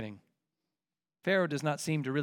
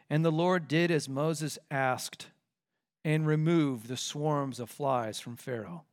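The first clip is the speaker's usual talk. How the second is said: slow, reverent reading; 4 semitones lower, 5 dB quieter, slower than usual. Shown as a demonstration. Preacher lingering over the verse to the congregation, slowly. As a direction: read slowly, letting "Lord" land. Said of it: "that's just astonishing".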